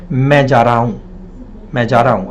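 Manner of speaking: "Main ja raha hoon" run together as "main ja-ra-oon"; everyday colloquial slurring of "Main ja raha hoon"; spoken Hindi contraction. Shown as a demonstration. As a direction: blend "raha hoon" into one short glide, dropping the h sounds. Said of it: "We say".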